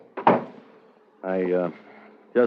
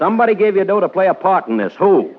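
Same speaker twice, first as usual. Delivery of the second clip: louder, higher demand; hard interrogation; 9 semitones higher, 7 dB louder than usual. Acted. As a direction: pin her down with the question. Captain presses suspect.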